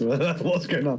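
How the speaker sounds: slow, laughing, baffled question; stunned confusion. Retold or imitated. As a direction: drag it out, laughing in disbelief. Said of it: "Oh, stunned man".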